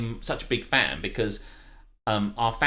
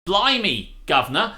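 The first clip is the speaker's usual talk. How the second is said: higher, louder hammed-up RAF chap; mock old English exclamation; 7 semitones higher, 7 dB louder than usual. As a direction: play a wartime British pilot. Mock wartime British slang.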